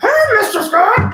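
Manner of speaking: very high, loud woman's voice, called out. A YouTuber printing out a picture greets himself with a Miss Parquet impression. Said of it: "that's a pretty good impression".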